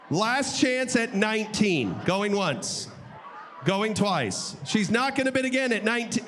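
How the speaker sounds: going once, going twice, drawn out to the sale; auctioneer calling the close. Acted. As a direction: build to the hammer then announce it. Auctioneer closing the lot.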